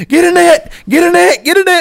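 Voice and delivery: high urgent repeated calls; frantic call. Retold or imitated. Angler calling to his buddy for a net, high frantic calls. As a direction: bark it out, fish on the line. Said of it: "I'm like".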